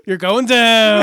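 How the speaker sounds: slow, drawn-out mock threat; mimicked rookie trash talk; imitated wrestling promo. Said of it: "He's like".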